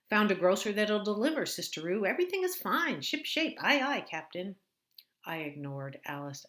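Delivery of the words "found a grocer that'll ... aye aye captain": much higher, louder chirpy recital; stilted bad actor. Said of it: "like listening to a bad actor recite lines".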